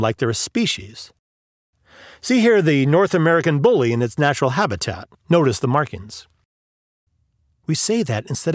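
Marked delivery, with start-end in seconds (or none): 2.2-6.3 hushed nature documentary narrator. Pretend. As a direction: narrate like a wildlife film. Mock wildlife documentary narration.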